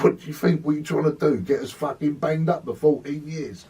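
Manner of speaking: angry mock yell at a co-defendant; retold angry outburst. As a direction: fire the questions back at him in a rage. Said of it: "I went ballistic at him".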